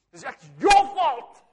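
high, loud joking accusation; laughing mock blame. Pastor blaming the Lord for his weight, laughing. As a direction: blame them playfully through laughter.

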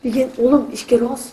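loud shout at friend. Real, not acted. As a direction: shout that you're leaving. Shouting to leave the building.

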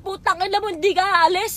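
replaying her drunk fury at him, half-voiced; retold angry outburst. Retelling her drunken fight with John. (bahagyang galit na sigaw sa pag-alala)

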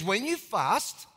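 P=A; stressed when. Shown as a demonstration.

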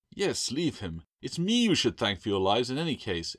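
smug, beaming little creature voice; proud creature, pleased with himself; beaming gecko. Acted. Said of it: "Echo beamed".

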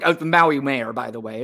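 mildly sneering quote, trailing off; lightly imitated dismissive aside; mocking dismissal. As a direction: toss it away like a smirking host. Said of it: "he had to make fun of it".

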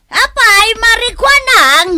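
high, loud, gushing welcome; overjoyed hostess greeting; effusive greeting. Acted. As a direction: greet her like a long-lost friend. Host greets arriving neighbour.

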